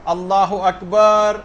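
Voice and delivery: very slow drawn-out اللہ اکبر; a slow, dragged takbir. Shown as a demonstration. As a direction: stretch اللہ اکبر out slowly, taking your time. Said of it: "چند second اور لگا دیے".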